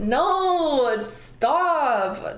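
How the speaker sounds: giggling through a pretend plea; laughing mock protest. Voicing caged friend, laughing and pleading. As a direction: laugh while begging to be let out.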